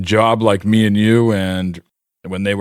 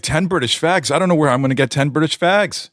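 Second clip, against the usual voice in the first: high, flustered American handler; shocked disbelief; 8 semitones higher than usual. Retold or imitated. A&R guy aghast at the bassist's request, high and flustered. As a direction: sputter it out like you can't believe the order.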